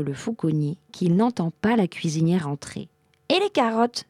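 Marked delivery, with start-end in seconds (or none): 3.3-4.0 s'écrie. A narrator's reading. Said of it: "s'écria la cuisinière".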